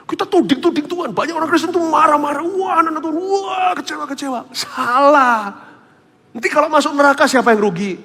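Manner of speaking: high, mocking imitation of whining Christians; mocking whine. Mocking whiny complainers. (meniru dengan nada tinggi mengejek orang Kristen yang merengek)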